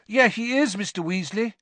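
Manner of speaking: earnest, high-pitched agreement. A narrator's reading. Harry vouching for the twins to their father, earnestly. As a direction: back your friends up earnestly. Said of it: "said Harry earnestly".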